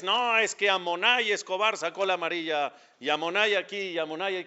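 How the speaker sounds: lightly voiced commentator saying "Amonay"; hint of a play-by-play call with "Amonay"; mock sports narrator. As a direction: commentator rattling off "Amonay Escobar". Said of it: "los narradores".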